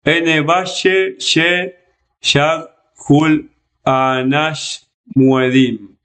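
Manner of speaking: slow careful reading of "Ene valle ye yag hul anash muedim", syllable by syllable; reading Sumerian aloud. Shown as a demonstration. Teacher reading the original Sumerian text to students, slow and deliberate. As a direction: sound out the Sumerian line slowly for the class. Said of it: "Y después dice".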